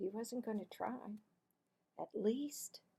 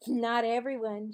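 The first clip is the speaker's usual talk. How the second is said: put-on accusing girl; 2 semitones higher, 9 dB louder than usual. Cassie to Marvin, loud accusing tattle. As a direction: point the finger, triumphant.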